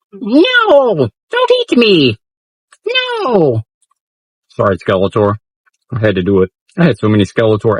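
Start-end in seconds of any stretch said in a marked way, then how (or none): 0.1-3.6 high, panicked little voice pleading not to be eaten; squeaky pleading toy voice. Pretend. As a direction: cry out like a tiny candy figure. Voicing candy Skeletor being eaten.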